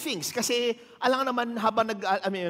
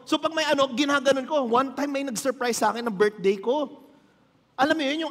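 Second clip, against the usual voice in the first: ordinary talk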